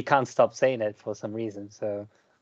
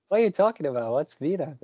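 higher-pitched imitation of puzzled outsiders; mock bafflement; 4 semitones higher than usual. Outsiders hearing a Curitiba word, mock-puzzled. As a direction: question it as if lightly baffled.

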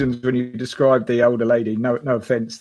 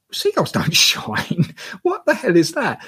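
amazed disbelief; 5 semitones higher, slower than usual. Retold or imitated. Seeing shining things in the sky.

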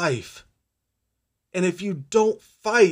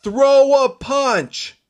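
slow, higher and louder command from within; inner guiding voice; 5 semitones higher, 4 dB louder, much slower than usual. Retold or imitated. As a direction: call it out slowly like a voice of strength. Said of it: "you hear your source behind you".

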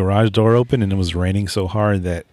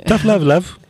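higher sing-song teasing voice; playful put-on voice; 11 semitones higher, 3 dB louder than usual. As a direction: tease it in a put-on voice.

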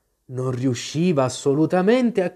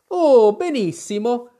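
higher, slower cry of delight; 8 semitones higher, 4 dB louder, slower than usual. A narrator's reading. Queen answers Alice about her finger, delighted cry. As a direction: sing out how fine it is. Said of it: "gridò la regina".

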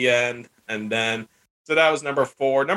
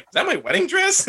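mock shocked wife.

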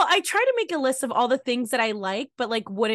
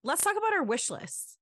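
whispered aside; 7 dB quieter than usual. Real, not acted. Whispered aside mid-segment.

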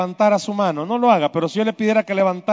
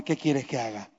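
much softer, lower, tender question; tender Jesus; 9 semitones lower, 13 dB quieter than usual. Pretend. Jesus gently asks Bartimeo what he wants, soft and low.

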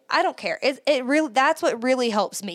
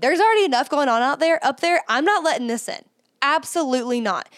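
aggressive self-talk; 3 semitones higher than usual. Shown as a demonstration. Rejecting an intrusive thought, forceful and emphatic. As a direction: shut the thought down hard. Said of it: "being really aggressive about it".

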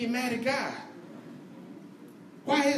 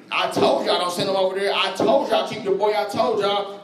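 told you so; 4 dB louder than usual. Retold or imitated. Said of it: "reminded everybody what he said".

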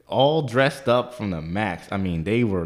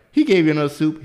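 retold surprise; 7 semitones higher, 5 dB louder, faster than usual. Retold surprised question to waiter.

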